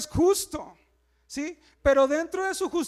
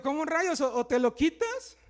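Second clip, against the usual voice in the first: mock disbelief; 4 dB louder than usual. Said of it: "Y digo".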